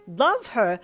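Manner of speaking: loud flat boom falling at the end. Acted. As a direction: slam "Love her?" down as a verdict. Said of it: "he boomed".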